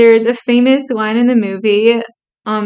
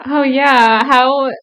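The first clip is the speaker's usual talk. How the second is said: sarcastic. Acted. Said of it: "The sarcasm is".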